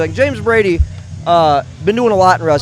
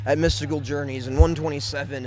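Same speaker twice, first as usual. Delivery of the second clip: emotional. Real, not acted. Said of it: "I'm gonna get a little emotional".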